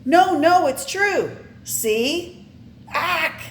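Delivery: high, loud frantic protest; insist, then yelp; frantic insistence. Acted. Betty proving it to the principal, high frantic cries.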